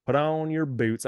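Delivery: host sending listeners to the steel mill in a lightly put-on Southern accent. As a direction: call the crew to work in a mild Southern accent. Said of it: "I'm giving you a Southern accent".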